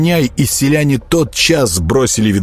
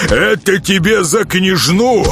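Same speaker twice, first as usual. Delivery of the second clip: higher and slow, leaning on КНЯЖНУ in Это тебе за княжну; gloating while beating; 10 semitones higher than usual. Acted. Nezhato strikes again for the princess, higher, stress on княжну. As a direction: rise to the word княжну and land it hard. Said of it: "приговаривая".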